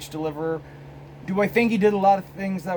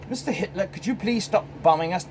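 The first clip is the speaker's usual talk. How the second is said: higher-pitched polite British plea; polite Brit impression; 4 semitones higher than usual. Bombed Briton asking Hitler to stop, mock polite.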